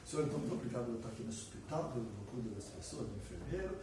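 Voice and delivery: fast, low and soft rote thanks; a nurse's everyday prayer at the hospital, hurried and soft; hurried routine prayer. Retold or imitated. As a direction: race through a dutiful prayer. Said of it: "Vai ser uma oração assim".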